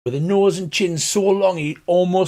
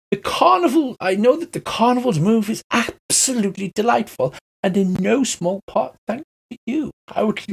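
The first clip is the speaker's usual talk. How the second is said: flamboyant elf; 8 semitones higher than usual. Acted. Mister Light boasts to the party, high and flamboyant. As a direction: gush grandly with every word. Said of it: "every word is accompanied by a flamboyant gesture".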